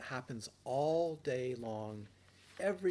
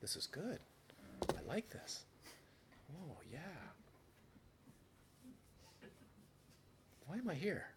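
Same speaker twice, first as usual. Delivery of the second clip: mock delight; 6 semitones higher, 10 dB quieter than usual. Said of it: "you'll be back into".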